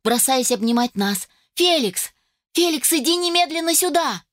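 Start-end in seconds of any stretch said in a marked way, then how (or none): 1.5-4.2 excited call, pitched high; mother calling across the yard, excited high call. Acted. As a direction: call him over from afar, thrilled. Mother calls husband excitedly.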